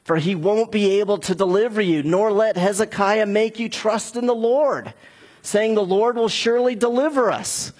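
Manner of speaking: a boastful envoy taunting the city. Acted. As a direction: read it like an enemy shouting over the wall. Preacher reads Rabshakeh's threats.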